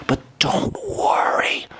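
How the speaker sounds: mock sobbing. Mock cry high.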